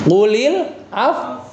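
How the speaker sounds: Qulil af- with lips pushed forward, slow; lips pursed. Shown as a demonstration. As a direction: round the lips into a pout on af-. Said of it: "monyongnya jangan ragu-ragu".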